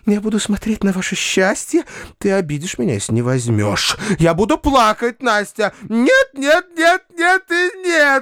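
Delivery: put-on high, breathless, gushing old maid; a flighty spinster overflowing with rapture; rapturous spinster begging her niece to take money, high and gushing; giddy Tatyana Ivanovna. Tatyana Ivanovna voiced again.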